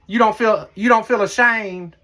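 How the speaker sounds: high, loud, slow mock outrage; mock shaming. Real, not acted. Asking husband whether he feels ashamed, mock outraged. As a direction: shame him, playfully.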